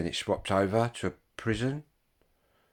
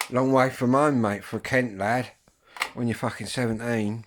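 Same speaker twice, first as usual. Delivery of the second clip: emphatic exclaim; 4 semitones higher, 5 dB louder than usual. Real, not acted. Exclaiming about being sent far.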